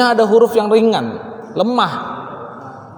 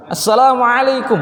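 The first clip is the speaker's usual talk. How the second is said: put-on "Assalamualaikum" in a light Arabic accent, higher; Arab-style salaam; 6 semitones higher than usual. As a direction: greet like a real Arab. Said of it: "Arab banget".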